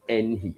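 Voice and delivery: N in N戏 said simply as "en"; modern EN sound. Shown as a demonstration. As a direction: drop the I-A glide in N戏. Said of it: "就变E N啊". (「N戏」照即馬簡化音讀 en)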